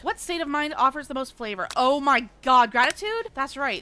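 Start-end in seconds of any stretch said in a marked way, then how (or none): 1.8-3.3 panicked guess. Real, not acted. Panicked quiz answer.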